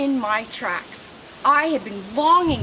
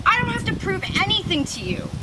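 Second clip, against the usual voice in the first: defensive outburst; 10 semitones higher, faster than usual. Acted. Lizard snaps back at rival.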